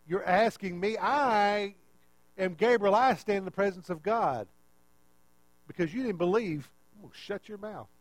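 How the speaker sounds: mildly indignant, emphatic retort; indignant angel. Retold or imitated. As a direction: act affronted, leaning on the key words. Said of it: "he became kinda indignant".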